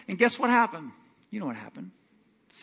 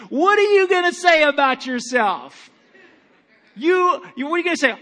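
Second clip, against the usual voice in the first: louder and higher, building up to a ringing peak; rising preaching shout; 8 semitones higher, 6 dB louder than usual. Real, not acted. Pastor to his church, climbing into a forceful preaching shout. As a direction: preach it harder with every phrase.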